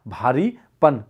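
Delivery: measured syllables for note-takers; slow, broken-up repetition; slow dictation. Shown as a demonstration. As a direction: split भारीपन into भारी, then पन. Teacher repeats answer for dictation.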